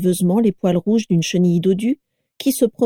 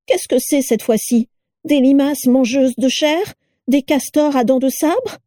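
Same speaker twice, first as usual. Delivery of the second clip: higher mocking wife's voice; mock the new parcel, voice pitched up; shrill sneering Carla; 7 semitones higher than usual. A narrator's reading.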